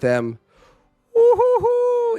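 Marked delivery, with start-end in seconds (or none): 1.1-2.2 high slow ghostly hoot; a haunted-house woo-hoo, drawn out; spooky woo. Retold or imitated. Spooky hoot describing the drunk roommate at home.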